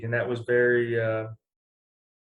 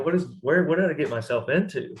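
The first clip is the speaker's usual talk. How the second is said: higher-pitched, amused disbelief, breaking into a laugh; retold bewilderment; 4 semitones higher than usual. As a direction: replay your own dismay with a laugh at the end. Retelling his bewildered reaction, laughing.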